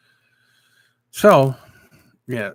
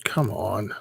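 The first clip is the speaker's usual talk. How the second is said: whisper; 7 dB quieter than usual. Real, not acted. Muttering at a glitch while fixing.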